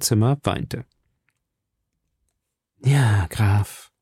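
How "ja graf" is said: gentle, tender reply; softest voice. A narrator's reading. Milady tenderly answering the count, softest voice. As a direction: caress the words. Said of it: "mit ihrer sanftesten Stimme".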